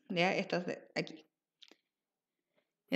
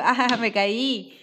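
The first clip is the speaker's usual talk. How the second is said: laughing; much slower than usual. Shown as a demonstration. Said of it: "Que lo digo riendo".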